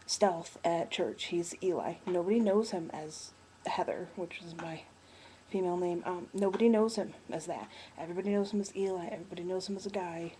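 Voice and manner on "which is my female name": hushed aside. Real, not acted. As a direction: whisper it like a secret. Dropping voice on birth name.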